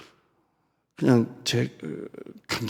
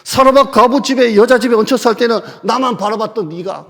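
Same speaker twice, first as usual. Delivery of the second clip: loud, much higher tirade; mock furious rebuke; 8 semitones higher, 7 dB louder than usual. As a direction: hammer him with every accusation. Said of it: "나는 그랬을 것 같아요".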